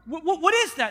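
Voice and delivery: high, stammering confusion; mock startled soldier asking where it came from; startled questions. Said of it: "He goes, he goes".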